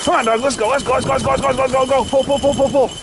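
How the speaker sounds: rhythmic cheering for the dogs to pull; urging the dogs. Real, not acted. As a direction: drive the dogs on.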